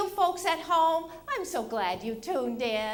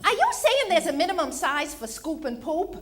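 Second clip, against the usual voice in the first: higher, incredulous wife's challenge; mock incredulity; 4 semitones higher, 3 dB louder than usual. Wife challenges husband over his dog-walking rule, incredulous. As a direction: question him as if you can't believe it.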